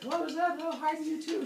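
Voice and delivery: high, loud mock shout; yelling back. Zeus yells back at passing runner, high shout. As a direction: holler it high, as if across a distance. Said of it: "they're yelling back and forth".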